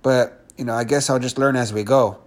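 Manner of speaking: resigned, unenthused reply; lukewarm acceptance. Acted. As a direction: go along with it without much conviction. Unconvinced listener beside pumped-up one.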